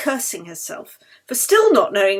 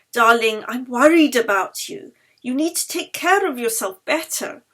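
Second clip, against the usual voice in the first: louder, higher caring reproach; fond scolding; 3 semitones higher, 5 dB louder than usual. Acted. Yeli scolds sick Anna to look after herself, loud and fond. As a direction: scold her lovingly.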